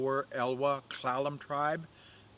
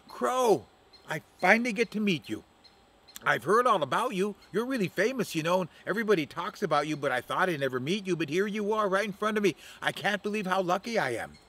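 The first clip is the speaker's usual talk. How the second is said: flattering Octopus Woman; 5 semitones higher than usual. Acted.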